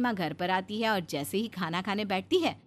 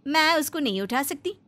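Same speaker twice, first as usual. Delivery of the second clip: higher, tattling complaint to mother-in-law; a touch louder, stirring up trouble; scheming elder daughter-in-law; 6 semitones higher, 7 dB louder than usual. Acted. Elder bahu complains to her mother-in-law, higher, tattling.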